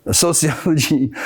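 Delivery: lightly put-on English accent. Shown as a demonstration. Demonstrating us and them across countries, English accent. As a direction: try a casual English accent. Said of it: "This is English accent".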